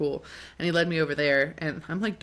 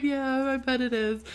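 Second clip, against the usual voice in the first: high, slow sympathetic reply; acted high-pitched commiseration; mock sympathy; 8 semitones higher, slower than usual. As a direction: humour him in a raised, drawn-out voice.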